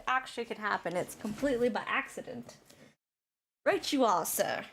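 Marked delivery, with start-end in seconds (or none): 3.6-4.6 put-on failed Scottish accent. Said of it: "That's English".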